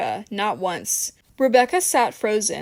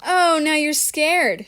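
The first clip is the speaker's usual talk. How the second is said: slow, higher-pitched venomous taunt; venom-laced; 6 semitones higher, slower than usual. A narrator's reading. Michelle leans in to taunt scared Rebecca, venomous. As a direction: draw it out with venom, fully voiced. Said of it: "venom-laced whisper".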